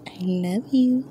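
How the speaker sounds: soft whispered I love you. Real, not acted. Owner whispers love to her sleepy tortoise, whispered. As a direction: breathe it in a whisper.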